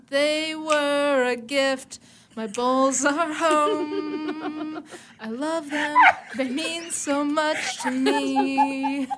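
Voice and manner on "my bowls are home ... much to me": laughing through fake sobs; mock crying. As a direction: weep over them, hammed up. Mock weeping over bowls.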